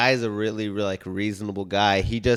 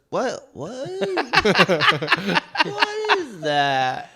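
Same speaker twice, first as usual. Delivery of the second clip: mock feigned innocence; 8 semitones higher, much slower than usual. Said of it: "He goes".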